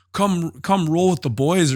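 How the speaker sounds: mock taunting chirp. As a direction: needle him from across the room. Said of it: "still chirping at the other guy".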